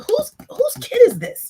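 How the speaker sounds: high, loud mock disbelief; astonished retold question. Retold astonished preschool teacher's question.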